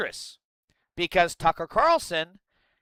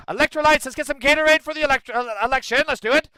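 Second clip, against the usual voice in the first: goofy joke; 9 semitones higher, 6 dB louder, faster than usual. Pretend. Joking about misspoken word.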